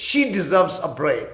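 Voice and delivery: very slow, clear teacher's read; slow example line; slow model sentence. Shown as a demonstration. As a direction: stretch it out for learners. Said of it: "کوئی کہتا ہے اسے آرام چاہیے".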